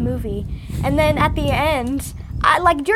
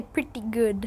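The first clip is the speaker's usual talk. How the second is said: British lady voice; 4 semitones lower, 6 dB quieter, slower than usual. Retold or imitated. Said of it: "that is how you talk".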